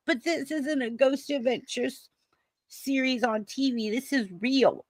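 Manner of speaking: mock-frightened late-night whisper; scared whisper. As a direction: whisper it like something might hear.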